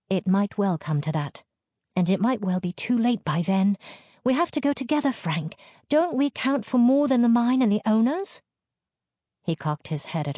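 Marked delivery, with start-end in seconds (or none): 0.1-8.4 high, insistent wifely plea; plead, pitch climbing as you go; urgent appeal, rising higher. A narrator's reading. Wife pleads with husband to come.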